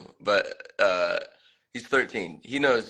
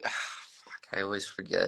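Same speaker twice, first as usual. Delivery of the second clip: whispered; 3 semitones lower, 8 dB quieter than usual. Real, not acted. Forgets the date.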